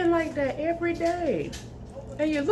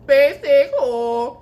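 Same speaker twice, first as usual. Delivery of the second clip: laughing; 8 dB louder, much slower than usual. Real, not acted. Laughing insult at friend.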